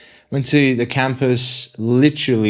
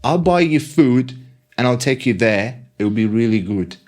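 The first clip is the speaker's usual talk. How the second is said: put-on eager Korean-accented lecturer, pitched a bit higher; 3 semitones higher than usual. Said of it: "this woman sounds amazing".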